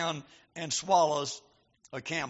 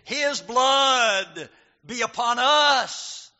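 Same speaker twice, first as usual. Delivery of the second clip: louder, slow and defiant; bold declaration; 3 semitones higher, 7 dB louder, much slower than usual. Retold or imitated. Crowd before Pilate answering boldly, loud slow defiance. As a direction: declare it boldly, dragging every word. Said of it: "They said very boldly".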